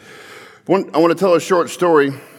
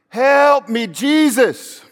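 much higher, louder desperate shout; full desperate plea, the louder take; louder cry for help; 12 semitones higher, 4 dB louder, much slower than usual. Retold or imitated. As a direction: scream for Jesus with everything left. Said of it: "Louder and louder".

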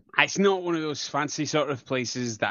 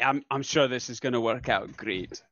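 understated, not quite convincing assurance; dubious reassurance; 2 semitones lower than usual. Acted. Assuring friends it will work out, understated dubious reassurance. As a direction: reassure in an everyday pitch, barely convincing. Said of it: "exactly that way".

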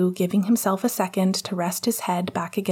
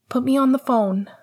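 higher-pitched insistent demand; Lily in the background; 6 semitones higher, 3 dB louder than usual. A narrator's reading. Lily calling out behind Celeste on the phone, insistent. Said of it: "came Lily's voice in the background".

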